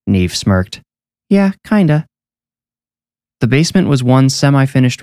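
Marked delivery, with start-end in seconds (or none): 1.3-2.1 put-on high little-girl voice; a child agreeing, pitched well up; young girl. A narrator's reading. Neve agreeing about her brother, high girlish voice.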